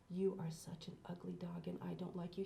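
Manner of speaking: soft whisper; quiet voice. Shown as a demonstration. Host showing kids how to whisper mean words to a dog. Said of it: "talk to the dog quietly and you go".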